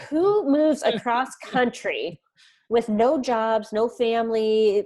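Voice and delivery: slow, loud, high-pitched disbelief; mock incredulity. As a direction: imitate baffled people, drawing out each word. Imitates incredulous people questioning move.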